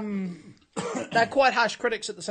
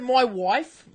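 attempted Irish accent; tentative go at an Irish accent; 2 semitones higher than usual. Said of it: "with an Irish accent".

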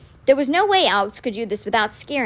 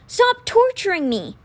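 anguished cry; 9 semitones higher, slower than usual. Acted. Boy pleads with the ghost of his brother, anguished. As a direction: beg the vision to stop.

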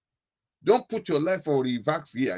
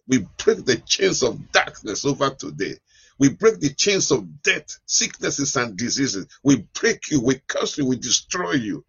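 laying a curse; 4 dB louder than usual. Real, not acted. Binding the devil in prayer.

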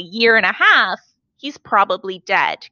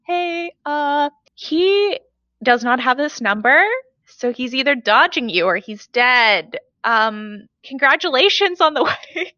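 haltingly awkward, pitched up at first and at the end; awkward reply; 3 semitones higher than usual. Retold or imitated. Replying to a wedding invite meant for someone else, awkward. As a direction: break the news in hesitant, apologetic bits. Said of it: "it was me being like".

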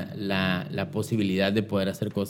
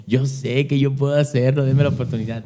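begging; 4 semitones higher than usual. Retold or imitated. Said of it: "así le supliqué".

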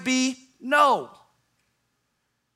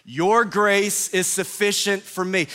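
slow group declaration. Shown as a demonstration. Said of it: "let's say it together".

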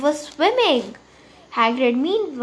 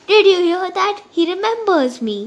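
louder, higher giddy boast; thrilled boasting; 7 semitones higher, 5 dB louder than usual. Acted. Tiggle telling the pub Harry remembers him, thrilled. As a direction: show off to everyone around.

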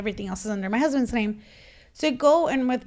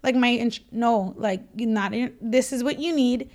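1 exasperated plea; 2 semitones higher than usual. Retold or imitated. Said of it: "And I was looking at him like".

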